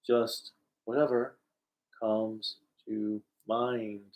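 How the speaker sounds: hammy low, word-by-word acting; put-on cartoon voice. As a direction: spell it out with long gaps. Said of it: "what are you trying to sound like".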